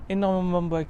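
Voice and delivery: énormément ba- breaks off mid-word on ba-; stumbled slip. Real, not acted. Presenter stumbles describing the seats, cut-off slip. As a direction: trip over the word and stop. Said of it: "excusez-moi".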